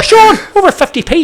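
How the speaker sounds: high, loud laughing quote; laughing complaint. Retold or imitated. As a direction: laugh through the customer's complaint. Quoting the customer, laughing.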